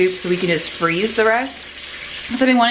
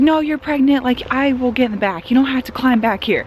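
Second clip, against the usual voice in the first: mom's insistence, higher and louder at first; imitating mom; 4 semitones higher, 3 dB louder than usual. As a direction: play your sweet mom insisting on the back seat. Mom voiced in retold story.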